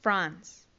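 "France" as one syllable ending in a long s; English pronunciation. Shown as a demonstration. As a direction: model "France" for learners, low pitch. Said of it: "Francia se dice". ("France" pronunciado en inglés, una sola sílaba)

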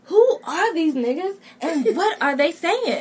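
mock bafflement. Kentucky student hearing Birmingham newcomers, mock bafflement.

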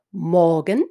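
morgen stressed, rising at the end. Shown as a demonstration. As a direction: put the weight on morgen, lift it. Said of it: "hauptsächliche Betonung ... auf dem Substantiv".

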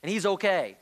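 pleading, frustrated questions thrown at God; a preacher voicing an exasperated believer railing at God; modern-day complaint to God. Preacher voicing a believer's exasperated complaint to God, pleading. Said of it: "it would sound like this today".

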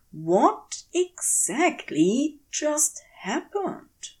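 slow, bewildered whisper; stunned whisper. A narrator's reading. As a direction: breathe the question out in disbelief. Stunned inner thought after fairy leaves.

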